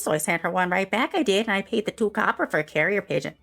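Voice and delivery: ranting Karen. Acted. Karen ranting to Clara about topiaries, indignant. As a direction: huff about the neighbour. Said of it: "you hear me saying".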